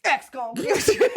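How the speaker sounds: a hint of a rapper voice breaking into a laugh; a rapper's line. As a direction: lightly do a rapper, then crack up. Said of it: "No, D M X".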